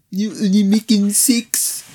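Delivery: slow, high put-on accent; mock French accent. Friend repeats the actress's line back, mock French accent. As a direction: echo the line as a joke.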